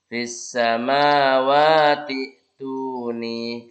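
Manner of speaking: "samawati tuni" joined, slow; linked reading. Shown as a demonstration. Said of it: "nah ini".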